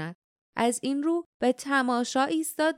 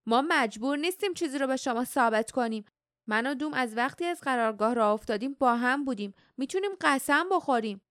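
mock angry shout, quick and only slightly raised; angry outburst; 3 semitones higher, faster than usual. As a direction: rush out the words in a touch of indignation. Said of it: "با عصبانیت فریاد زد".

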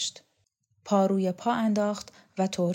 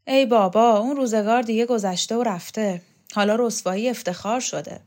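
much louder outburst then settling; exasperated exclamation; 3 semitones higher, 6 dB louder than usual. Acted. Yavar exclaims loudly that those days are gone. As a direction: throw up your hands.

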